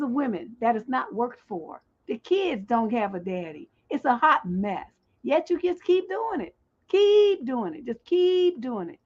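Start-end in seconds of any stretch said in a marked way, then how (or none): none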